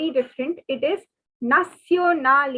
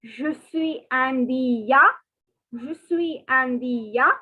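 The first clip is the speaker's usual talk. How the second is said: Je suis indien said slowly, ending ya; slow French, masculine; slower than usual. Shown as a demonstration. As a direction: model the boys' form slowly. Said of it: "So for boys, it is".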